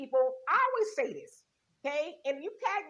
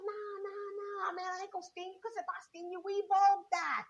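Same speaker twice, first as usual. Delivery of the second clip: smooth-talking scorpion; 3 semitones higher than usual. Acted. Scorpion voiced in the fable.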